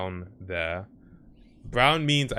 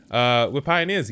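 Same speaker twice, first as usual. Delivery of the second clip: mock Canadian accent; 3 semitones higher, 6 dB louder than usual. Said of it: "Crying at your Canadian accent".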